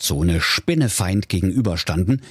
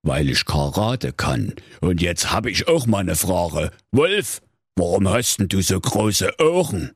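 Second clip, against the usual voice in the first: calm threat before the fight; menacing fake Little Red Riding Hood. Agent als Rotkäppchen droht.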